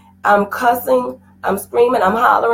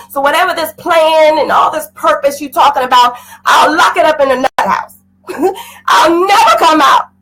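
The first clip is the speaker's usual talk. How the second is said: crying defiant shout. Retold or imitated. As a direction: shout it through tears, daring God. Retold outburst at God, crying.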